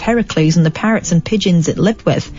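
put-on a slight New Zealand accent on the quote; lightly voiced New Zealand professor; a hint of a New Zealand accent; bit New Zealand. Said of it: "I made her a bit New Zealand then".

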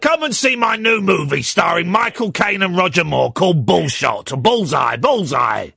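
hammed-up film director plugging a movie; Michael Winner. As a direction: pitch the film like a showman, stretching the title. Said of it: "My name's Michael Winner".

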